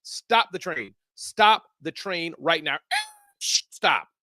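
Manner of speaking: high loud whoa, then slow "stop the train"; mock alarm. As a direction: halt everything like a runaway train. Host halts show dramatically.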